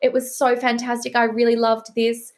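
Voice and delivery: butter up the author before the bad news; gushing editor praise. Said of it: "I was gonna do an American accent, but it's written, so there's no accent".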